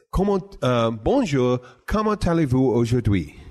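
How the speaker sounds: retold greeting in careful French accent. Customer greeting a table of French visitors, French accent. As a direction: re-enact your attempt at a French accent. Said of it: "misconstrued my accent as perfect French".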